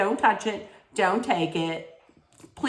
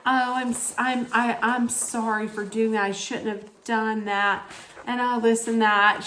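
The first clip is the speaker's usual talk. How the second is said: mimicking a guest's sappy regret; mock insincere apology; 4 semitones higher than usual. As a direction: parody a fake apology. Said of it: "she was like".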